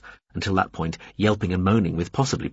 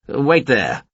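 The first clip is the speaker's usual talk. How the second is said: shouted; 4 semitones higher, 4 dB louder than usual. A narrator's reading. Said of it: "Veppers shouted".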